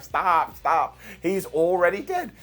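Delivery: lightly voiced kid begging for it to stop; mock plea, rising at the end; hint of a distressed young fan; imitated pleading kid. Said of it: "some kid was like".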